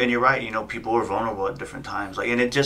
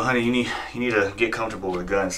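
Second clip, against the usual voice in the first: laughing advice. Retold or imitated. Joking advice to wife, laugh.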